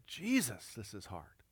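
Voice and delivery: softly falling, understated sorrow; retold tearful exclamation. Daughter confiding outside the nursing home, retold quiet sorrow. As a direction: let it drop away quietly, as if near tears. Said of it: "tears were welling up her eyes".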